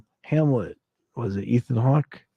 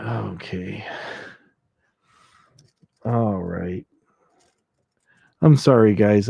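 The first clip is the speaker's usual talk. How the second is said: ordinary delivery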